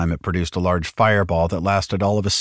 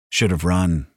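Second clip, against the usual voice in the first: chiding. Acted.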